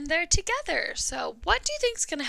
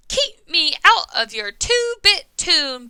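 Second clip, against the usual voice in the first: louder, slower gruff dog voice; barking dog; 3 semitones higher, 8 dB louder than usual. Acted. Dog snapping at the singing farmer, loud. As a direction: bark the line at the farmer. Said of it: "barked the dog".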